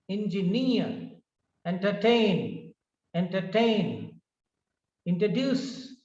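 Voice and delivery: repetition drill from afternoon to recommend, third syllable carrying the weight; stress on third syllable. Shown as a demonstration. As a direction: lean on the end of entertain, introduce, recommend. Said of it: "third syllable".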